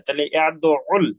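ইয়াদউল slowly, with the আইন doubled; slow, careful. Shown as a demonstration. Teacher slowly models ইয়াদউল with the doubled আইন. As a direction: stretch out ইয়াদউল, rising at the end. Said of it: "আইনটা দুইবার উচ্চারণ হবে".

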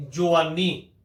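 ਜਵਾਨੀ said with an o sound, jovani; ਜਵਾਨੀ with the hora vowel o; reading with hora. Shown as a demonstration. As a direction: say ਜਵਾਨੀ as jo-vaa-nee. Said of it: "ਅਸੀਂ ਉਚਾਰਨ ਕਰਾਂਗੇ".

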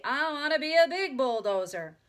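high, loud exasperated recital; cross. A narrator's reading. Big sister rereads the line, cross. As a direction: recite it loudly to appease. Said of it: "said Beezus crossly".

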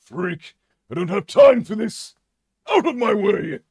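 high, loud brusque voice; judge dismissing. Pretend. Judge character brushing off the freak, loud and high. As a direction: push past him with contempt.

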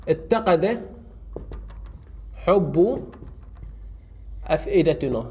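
اتقد, حب, أفئدتنا each set apart by long pauses; slow word by word. Shown as a demonstration. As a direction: dictate اتقد حب أفئدتنا one word at a time. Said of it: "راح أقول". (نطق كلمة كلمة مع وقفات طويلة)

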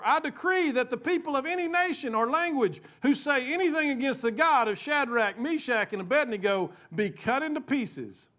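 loud, high proclamation; royal decree. Acted. King issuing his decree, loud and high. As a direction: declare it as the king. King's decree read aloud.

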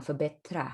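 förbättra said slowly and syllable by syllable; slow pronunciation. Shown as a demonstration. Teacher showing the full word slowly to students. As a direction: stretch förbättra out clearly. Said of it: "จะเป็นคำเต็มของมัน".

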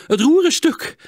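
hoog en luid, in nood; hijgende noodkreet. A narrator's reading. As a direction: hijg het geschrokken uit. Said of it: "hijgde Sietse". (gejaagd, hoog en luid)

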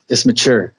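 mature with a CH, "ma-CHOOR". Shown as a demonstration. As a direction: say "mature" plainly as ma-CHUR. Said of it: "he'll put emphasis in words like mature".

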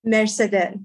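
Mercedes with a rolled Persian r; Persian pronunciation. Shown as a demonstration. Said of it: "say it".

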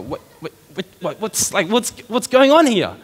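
stammering, laughing mock confusion, rising high at the end; dumbfounded disciples. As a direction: play the baffled disciples, half laughing. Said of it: "they're kind of dumbfounded".

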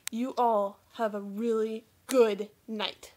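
slow, serious sign-off; all serious. Real, not acted. Vlogger wishing viewers good night, slow and serious. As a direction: say it slowly and earnestly. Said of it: "I don't wanna say that all serious".

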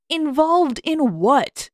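slow, high mock-innocent question; Sokka pretending not to know, slow and high; feigned innocence. A narrator's reading. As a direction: play dumb, drawing it out.

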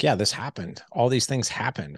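empowering, sure-of-himself statement; confident, matter-of-fact. Retold or imitated. Father telling his sons about childhood, confident. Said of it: "empowering, sort of confident, masculine way".

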